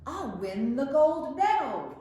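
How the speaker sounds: high, loud gleeful cheer; a kid crowing over winning gold; excited triumph. A narrator's reading. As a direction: shout it like you've already won. Dreaming of Olympic victory.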